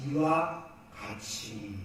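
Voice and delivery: low, drawn-out scripture phrase; slow emphasis. Shown as a demonstration. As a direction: stretch out each word slowly and deliberately. Stressing key phrase of quoted verse.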